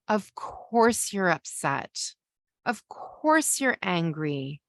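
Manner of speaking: slow, gentle of course you're upset; a parent comforting a child over the broken Lego; slow validating. Shown as a demonstration. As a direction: take your time and validate each feeling. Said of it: "validating how they're feeling".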